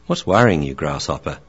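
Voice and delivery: a patient mentor soothing his pupil; wise old dog. Acted. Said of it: "Theo the Akita".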